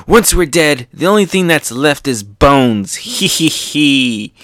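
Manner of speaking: acted cocky reply; defiant hero. Acts Luffy's defiant laughing reply.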